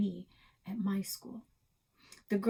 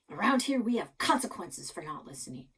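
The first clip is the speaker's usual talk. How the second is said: stern grandpa; 5 dB louder than usual. Acted. Grandpa lays down rules.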